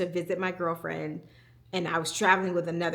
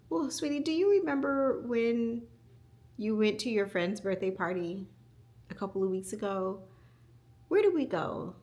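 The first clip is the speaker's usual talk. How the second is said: gentle mom voice; 3 semitones higher than usual. Retold or imitated. Mother soothing crying child.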